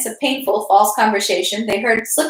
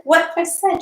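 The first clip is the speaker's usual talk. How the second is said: distressed; 8 semitones higher than usual. A narrator's reading. Repeated higher.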